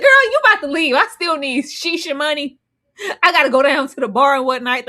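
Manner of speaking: high, loud brash man; mock selfish fiancé. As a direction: toss it off carelessly. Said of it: "He said".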